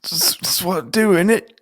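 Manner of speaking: a hint of Jyn's defiant rebel line; Jyn Erso quote. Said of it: "Jyn Erso".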